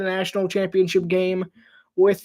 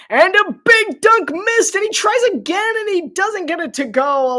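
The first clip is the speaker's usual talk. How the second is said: excited shout; 10 semitones higher, 5 dB louder than usual. Real, not acted. Play-by-play caller erupting over a missed dunk, excited shout. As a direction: pitch jumps way up and louder on the big miss.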